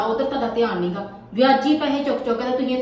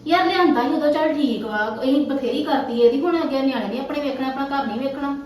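angry wife; 3 semitones higher than usual. Acted. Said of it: "ਗੁੱਸੇ ਚ ਕਿਉਂ ਆ".

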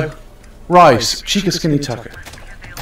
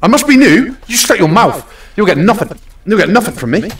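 mock rude customer; 5 semitones higher, 3 dB louder, faster than usual. Acting out a rude customer exchange.

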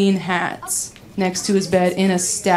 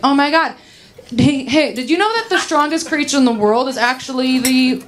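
higher, eager fun-fact reveal; excited blurting; 4 semitones higher than usual. Acted. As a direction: blurt out trivia with eager urgency. Blurts fun fact during sex.

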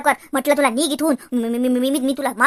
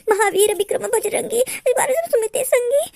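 tearful prayer; 4 semitones higher, slower than usual. Acted. Terrified wife praying to Hanuman.

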